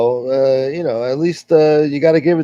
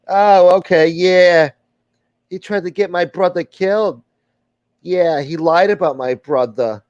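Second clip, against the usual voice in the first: put-on wise guy accent. Old gangster defending his name to the stream, lightly voiced. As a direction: play the smooth-talking tough guy, lightly. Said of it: "I used to do this accent a lot better".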